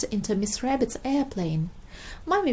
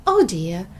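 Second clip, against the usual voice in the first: groan; 4 semitones lower, 7 dB louder than usual. Acted. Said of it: "groaned Daddy Pig".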